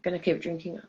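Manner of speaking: high, tipsy slurring. Real, not acted. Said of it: "Sorry, I'm drunk".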